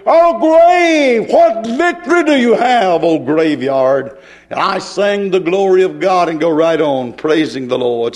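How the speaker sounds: declaiming from the pulpit; full-force preaching. Acted. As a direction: preach it out like a challenge to the grave.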